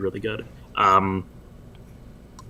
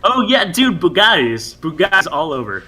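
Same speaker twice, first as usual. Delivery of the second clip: excited; 5 semitones higher than usual. Pretend. Joking about winning rares.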